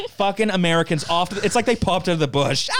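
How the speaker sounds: ordinary talk, nothing marked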